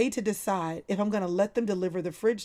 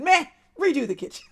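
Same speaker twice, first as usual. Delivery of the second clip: laughing quote; 6 semitones higher, 4 dB louder than usual. Retold or imitated. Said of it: "April said".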